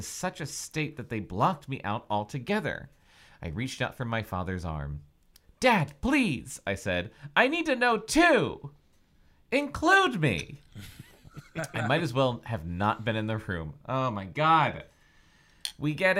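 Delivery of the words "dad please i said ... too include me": high, slow pleading. Acted. Daughter begging her father to include her, high and slow. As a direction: beg to be included.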